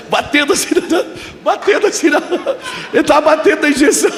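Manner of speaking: high, laughing, fast tumble of words; tickled retelling; laughing while telling. Real, not acted. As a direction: giggle through the description. Laughing while miming injection.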